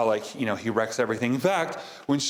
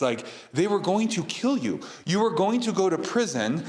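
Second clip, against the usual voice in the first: higher, urgent big-brother voice; pleading older brother; 5 semitones higher than usual. Retold or imitated. Older brother justifying himself to Johnny, higher and pressing. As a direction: plead your case to your little brother.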